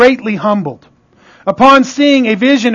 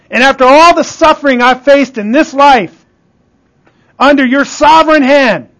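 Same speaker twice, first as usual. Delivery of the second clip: impassioned Job; 3 semitones higher, 3 dB louder than usual. Acted. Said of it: "Job says".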